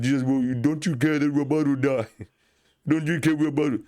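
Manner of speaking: high, frantic cry with a nervous laugh; panicked disciples. Retold or imitated. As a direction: plead in alarm as the boat sinks. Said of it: "And they said".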